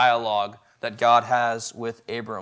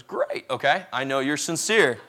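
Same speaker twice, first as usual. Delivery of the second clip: put-on girl's voice; 2 semitones higher than usual. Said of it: "Like I said, voice".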